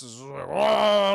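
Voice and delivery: loud drawn-out mock groan of rage; mad roar. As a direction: bellow it out long and angry. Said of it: "He's very mad".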